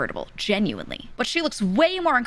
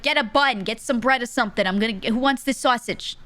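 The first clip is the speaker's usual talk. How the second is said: mock yell, pitched up; yelling uncle; 4 semitones higher than usual. Uncle offering sausage off the grill, mock yelling. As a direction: call it out like a loud uncle at the grill. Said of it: "He's yelling it 'cause he's, he's loud".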